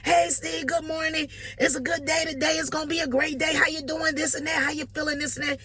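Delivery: chirpy caller at five in the morning; overly cheerful greeting. Retold or imitated. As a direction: sell a great day to a sleepy friend. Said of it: "calling him all loud".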